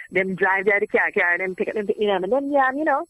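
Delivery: thick, quick-tongued Jamaican patois. Shown as a demonstration. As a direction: slip into broad Jamaican patois. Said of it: "went into a little bit of patois".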